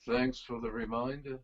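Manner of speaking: low, dry imitation English accent; a drummer's English accent. Drummer answering a birthday wish, in a mock English accent. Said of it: "pardon my terrible accent".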